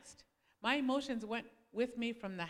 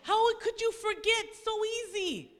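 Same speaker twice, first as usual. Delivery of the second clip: laughing accusation; 8 semitones higher, 5 dB louder than usual. Retold or imitated. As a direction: tease him in disbelief. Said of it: "I would tell him".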